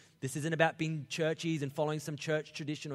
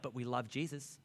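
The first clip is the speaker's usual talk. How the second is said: softer, lower earnest reply; pleading Gentiles; 3 semitones lower, 6 dB quieter than usual. Retold or imitated. Gentiles answering Peter, soft and earnest. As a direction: answer meekly and sincerely. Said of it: "But they're like".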